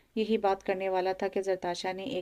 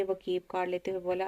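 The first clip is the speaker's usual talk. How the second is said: ordinary delivery, nothing marked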